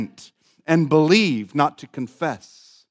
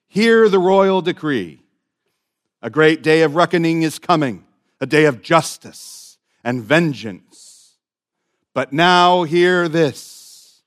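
town crier; 4 dB louder than usual. Retold or imitated. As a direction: cry it out like a medieval herald. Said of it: "presents this angel as a sort of medieval herald".

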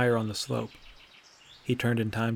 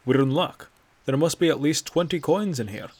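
put-on louder, chuffed old man voice; pleased old Nord; 4 semitones higher, 6 dB louder than usual. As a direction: gloat a little over the coins. Bracknell finds a coin pouch.

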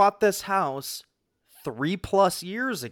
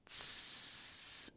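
imitated hiss; 15 dB quieter than usual. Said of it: "press and I hold it again".

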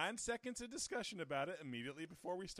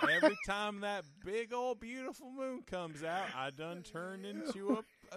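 cowboy voice; 4 semitones higher than usual. Acted. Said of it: "it's still Cowboy Week".

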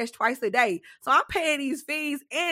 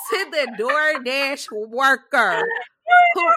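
laughing; 5 dB louder than usual. Real, not acted. Laughing while starting rant.

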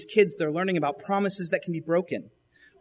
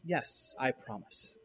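soft reassurance; 3 semitones lower, 6 dB quieter, much slower than usual. Retold or imitated. Mother reassures daughter.

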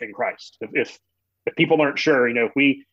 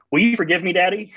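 little daughter; 5 semitones higher than usual. Retold or imitated. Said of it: "she says".

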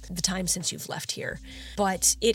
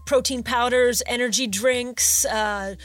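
chatty, upbeat salesman voice; eager shopkeeper; 3 semitones higher, 3 dB louder than usual. Acted. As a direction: pitch the goods like a friendly bro.

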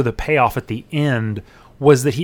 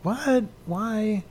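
incredulous; 8 semitones higher, 6 dB quieter than usual. Retold or imitated. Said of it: "I was like".

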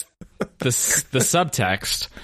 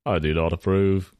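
hammed-up fake British accent as a famous singer; a rock star objecting in an exaggerated fake British accent; mock British accent; 3 semitones lower than usual. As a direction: play a prim, offended Englishman, over the top. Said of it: "exaggerated, put-on British accent".

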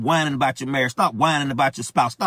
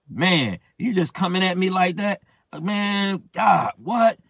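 higher-pitched, indignant protest at God; retold anger; 4 semitones higher, slower than usual. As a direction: act out being offended and incredulous. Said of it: "I was pissed off. I'm like".

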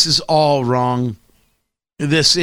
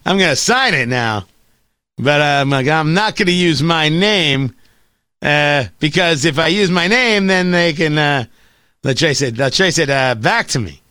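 Norm Macdonald impression; 2 semitones lower than usual. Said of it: "I can do it like Norm Macdonald".

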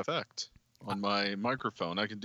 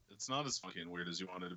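fast robot voice effect; flat robotic robot voice; 5 semitones lower, 11 dB quieter, much faster than usual. Acted. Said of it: "you sound like a robot now".

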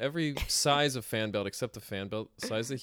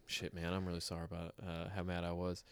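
much softer, fast, hushed apology; mild sheepish apology; 4 semitones lower, 10 dB quieter, faster than usual. Retold or imitated. Preacher apologizing to the teens, a soft sheepish mumble. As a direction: mumble a quick sorry.

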